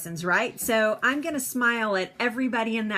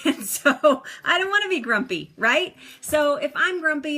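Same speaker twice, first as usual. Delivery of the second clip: laughing; 5 semitones higher, 4 dB louder than usual. Real, not acted. Laughing about grumpiness.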